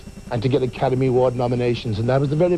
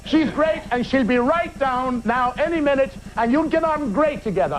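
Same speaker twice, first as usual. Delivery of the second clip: cheeky reply; 8 semitones higher than usual. Retold or imitated. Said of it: "and I know I'm fired".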